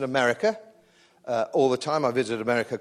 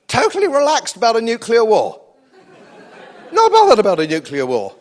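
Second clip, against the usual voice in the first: indignant rant; 7 semitones higher, 9 dB louder than usual. Real, not acted. Indignant rant at mask wearers.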